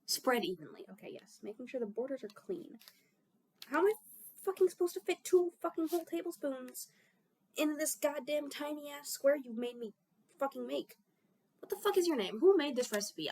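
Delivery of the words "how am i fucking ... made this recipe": higher, swearing in real frustration; real annoyance while cooking; exasperated rant. Real, not acted. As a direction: vent at the recipe writer. Frustrated at recipe's tiny squares.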